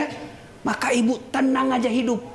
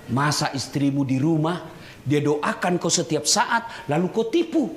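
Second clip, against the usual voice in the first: ordinary delivery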